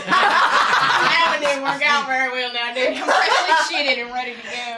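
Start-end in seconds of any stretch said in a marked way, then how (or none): 0.1-3.0 laughing. Real, not acted. Laughing at own joke.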